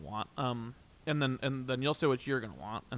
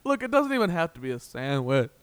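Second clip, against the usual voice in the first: high, loud pleading that climbs higher; begging; 10 semitones higher, 9 dB louder than usual. Pretend. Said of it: "we'll both beg the universe".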